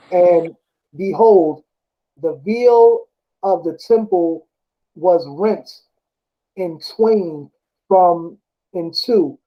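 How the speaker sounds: slow, measured Bible reading; scripture reading. Acted. Preacher reading the crucifixion passage to a friend, slow and measured. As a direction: read the verse out deliberately.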